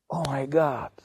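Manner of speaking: breathless stunned whisper; shocked whisper. Retold or imitated. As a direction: gasp it out under your breath. Ram shocked at the request.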